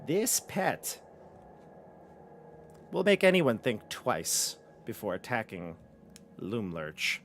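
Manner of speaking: measured menace with long pauses; proud, scheming mistress of the house; boastful villainess. Acted. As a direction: savour the threat, dropping at phrase ends. Same character boasts of her pet.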